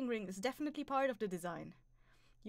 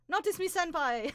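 loud squeal; 7 semitones higher, 8 dB louder than usual. Pretend. Reading chat line out loud.

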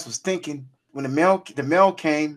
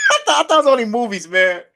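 excited; 7 semitones higher, 6 dB louder than usual. Real, not acted. Excited retelling, laughing.

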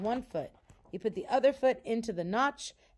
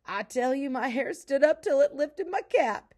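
high, loud character voice of a frightened man; excited telling; 6 semitones higher, 5 dB louder than usual. A narrator's reading. Pa telling Laura about the scream, excitedly. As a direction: tell the scare with big emphasis. Pa excitedly tells his panther scare.

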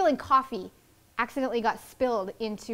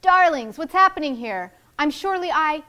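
high, loud theatrical diva; 5 semitones higher, 8 dB louder than usual. Acted. Soap opera star greeting the street crowd, grand diva voice.

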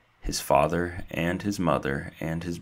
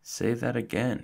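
high, eager request; 8 semitones higher than usual. A narrator's reading. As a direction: ask again in delight. Stuart sits bolt upright.

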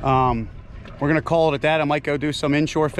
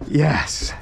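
whispered yes. Real, not acted. Quiet triumph after the catch.

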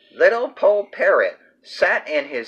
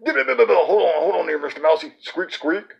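squeaky mouse. Acted. Mouse character talks.

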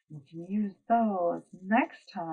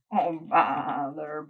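bleated; slower than usual. Acted. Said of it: "bleated Sheep".

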